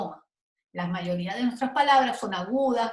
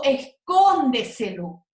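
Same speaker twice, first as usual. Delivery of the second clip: escóndeselo with a strong, louder CON, tail trailing; stress on the accented syllable; 6 dB louder, slower than usual. Shown as a demonstration. Teacher showing where a very long word is accented, stressed syllable punched. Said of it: "el acento va aquí y siempre también se acentúa".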